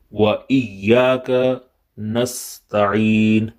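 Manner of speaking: slow, measured Quranic recitation. Acted. Teacher recites the ayat for students, slow and measured. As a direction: recite slowly, letting each word ring.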